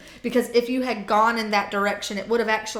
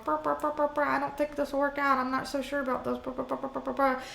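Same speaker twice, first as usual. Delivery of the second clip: soft buzzing "brr" alarm with hushed worried words; quiet alarm bells; 2 semitones higher, 6 dB quieter, faster than usual. Retold or imitated. The quiet alarm bells in the back of your head, hushed buzzing. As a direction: hum the doubt quietly, like a faint alarm. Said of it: "quiet alarm bells in the very".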